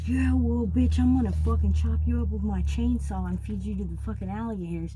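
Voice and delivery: loud, high-pitched angry tirade; furious retold threat. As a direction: act out a man yelling a violent threat, easing off at the end. Retells driver's furious chainsaw threat.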